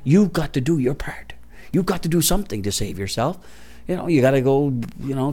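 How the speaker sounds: a secretive whisper; whispered objection. Retold or imitated. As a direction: hiss it like a warning. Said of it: "They'll tell you you're crazy".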